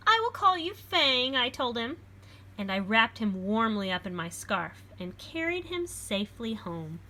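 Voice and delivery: put-on lively read-aloud for children; storybook reading. A narrator's reading. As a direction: read it like a picture book to a class. Reads picture book aloud.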